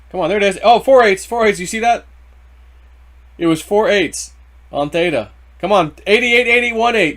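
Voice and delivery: real excited shouting, high and loud; horse race announcer. Real, not acted. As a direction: call it like the final stretch of a horse race. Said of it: "broadcasting a horse race".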